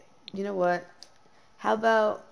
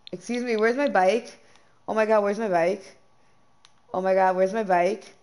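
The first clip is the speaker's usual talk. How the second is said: rising alarm, calling out where's my bike; frantic searching, voice climbing; real panic over a lost bike; panicked disbelief; 2 semitones higher, 4 dB louder than usual. Real, not acted. Bike missing from game inventory.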